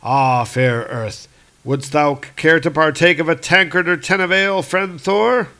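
hammed-up cheerful invitation; merry Hercules. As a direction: raise a tankard with a hearty friend. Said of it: "pretty happy to be back".

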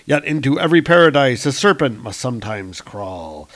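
ominous storybook caption; grand narration. A narrator's reading. Narrator warning of a serpent in paradise, grand narration. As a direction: intone it like a fantasy prologue.

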